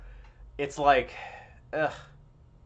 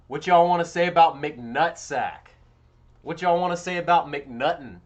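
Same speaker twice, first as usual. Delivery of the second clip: mock hype; 4 semitones higher, 8 dB louder than usual. Streamer hyping chat about McNulty.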